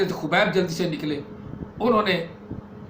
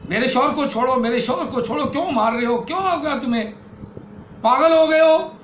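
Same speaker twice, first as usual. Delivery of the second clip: desperate plea; 4 semitones higher than usual. Acted. Sister begging brother to release her husband, desperate plea. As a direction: beg him to stop, rising.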